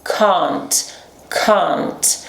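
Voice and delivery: can't with a long open back a, British style. Shown as a demonstration. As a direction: repeat can't with a broad ah. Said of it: "Esse é o som de A aqui no inglês britânico". (can't com A longo e aberto, britânico)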